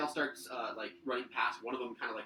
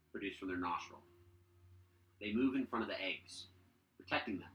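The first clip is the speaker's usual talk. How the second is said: halting reveal, phrase by phrase; suspenseful scene setting; slower than usual. Acted. Game master reveals drakes guarding eggs, suspenseful narration. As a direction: let each detail land after a pause.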